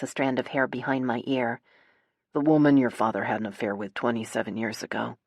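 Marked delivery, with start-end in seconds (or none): 2.3-5.2 low, careful male revelation. A narrator's reading. Nate tells sister about father's affair, low voice. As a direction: break it gently in a low register. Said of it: "His voice is low".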